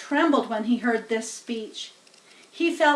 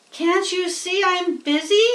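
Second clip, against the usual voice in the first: disgusted; 8 semitones higher, 6 dB louder than usual. Acted. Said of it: "replied Avery in disgust".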